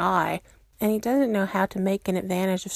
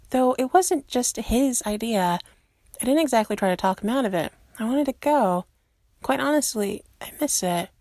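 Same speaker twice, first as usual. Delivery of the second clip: put-on young woman voice; 4 semitones higher than usual. Kate admits she wanted to go.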